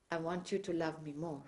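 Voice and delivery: softly spoken gentle request, quoted. Retold or imitated. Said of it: "Very gently said".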